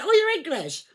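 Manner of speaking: a player realising she's English, surprised. Retold or imitated. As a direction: act caught out by the accent. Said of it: "He went".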